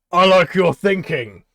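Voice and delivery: high, loud and slow; delighted showman. Acted. Grinning Tabaxi praising the dwarf, loud and slow. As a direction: savor the idea with a grin.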